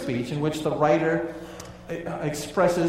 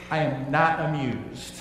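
slow, dry, unamused; a teacher deadpanning at an unruly class, slowly; dry teacher annoyance; slower than usual. Retold or imitated. Teacher to misbehaving students, slow dry deadpan. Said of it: "the teacher wants to say that he's annoyed".

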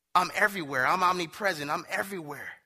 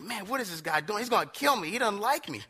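higher-pitched retold alarm; mock panic; 4 semitones higher than usual. Passenger to himself as driver speeds into curve, mock panic. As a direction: fret like a worried passenger, playfully.

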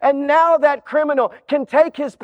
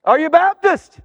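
examiner; 4 semitones higher, 3 dB louder than usual. Acted. Examiner questions the man.

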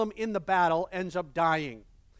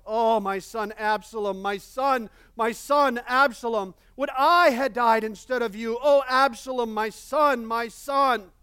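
grieving father's cry, louder; mournful lament; 3 semitones higher, 6 dB louder than usual. Retold or imitated. Pastor voicing David weeping for his son. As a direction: wail it as a heartbroken father. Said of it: "The king was deeply moved ... and wept".

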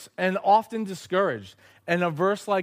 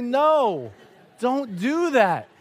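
stern dad; 7 semitones higher, 5 dB louder, much slower than usual. Retold or imitated. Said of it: "And so I say".

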